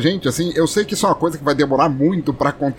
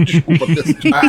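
coughing; 3 dB louder than usual. Real, not acted. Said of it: "Ah, essa tosse".

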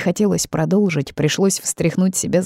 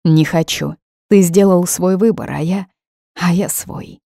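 angry and desperate; 3 dB louder than usual. Acted. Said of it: "Зло, отчаянно".

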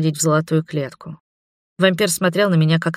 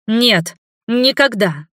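desperate refusal; 5 semitones higher, much slower than usual. A narrator's reading. Heroine struggling in his grip.

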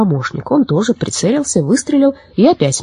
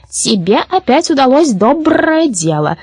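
high, slow approving voice; unhurried, lifted-pitch commendation; praising; 7 semitones higher, slower than usual. A narrator's reading. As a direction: praise a friend's good deed. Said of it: "похвалил её Абрахас".

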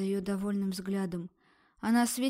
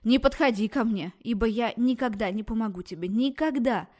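loud warning yell; shout; 5 dB louder than usual. Acted. Doctor shouting at the approaching girl, loud. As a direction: shout her back off. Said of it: "услышав её крик".

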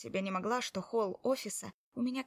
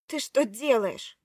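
indignant protest; 3 semitones higher, 8 dB louder, slower than usual. Acted. Wife protests husband taking bag.

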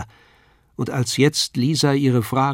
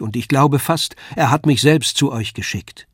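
stronger voice; 2 semitones higher, 4 dB louder than usual. Acted. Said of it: "der stärkere Klang meiner Stimme".

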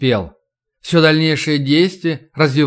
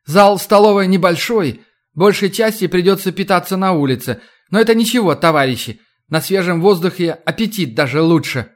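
flustered official speech; 4 semitones higher than usual. Acted. Official tries a joke.

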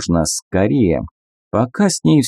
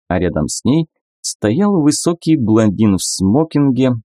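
ordinary delivery, nothing marked

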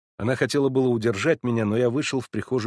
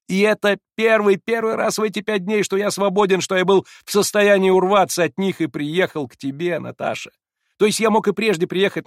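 high and loud, rushing on; excited young man; 7 semitones higher, 5 dB louder than usual. A narrator's reading. Alyosha excitedly justifying himself to the narrator. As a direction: pour it all out.

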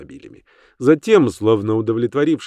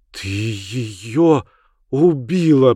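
plain reading voice

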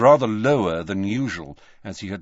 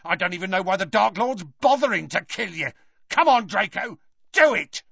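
angry ranting; 10 semitones higher than usual. A narrator's reading. Death Eater rants at Dumbledore.

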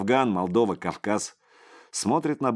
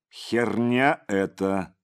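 ordinary delivery, nothing marked

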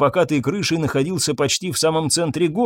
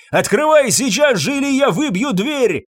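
high-pitched urgent threat; angry, desperate demand; shouting; 11 semitones higher than usual. A narrator's reading. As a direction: shout the ultimatum through a door. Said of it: "закричал в закрытую дверь".

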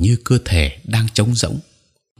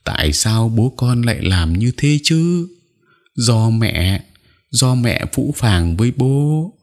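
crying; 4 semitones higher, slower than usual. Acted. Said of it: "Mẹ tôi khóc".

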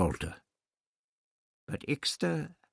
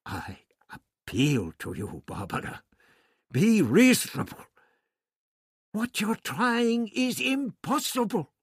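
imploring; 11 semitones higher than usual. Acted. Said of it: "the doctor implored".

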